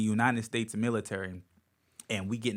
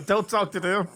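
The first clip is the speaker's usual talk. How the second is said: higher and louder, warning; protective mom; 8 semitones higher, 6 dB louder than usual. Retold or imitated. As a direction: warn them off like a protective mother. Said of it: "my mom be like".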